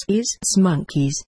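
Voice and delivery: a touch of grievance, lightly voiced; mildly aggrieved complaint. A narrator's reading. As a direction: grumble it, mildly put out. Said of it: "in an aggrieved tone".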